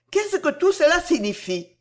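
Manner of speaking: high-pitched exclaimed question; astonished exclamation. A narrator's reading. Cécile questions Harel's sudden change, astonished exclamation. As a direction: cry out in bewilderment, pitch jumping up. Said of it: "s'écria Cécile".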